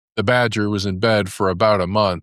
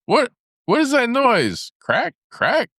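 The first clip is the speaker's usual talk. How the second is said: high, uneasy voice asking about the noise; a jumpy badger, voiced high and puzzled; nervous badger; slower than usual. A narrator's reading.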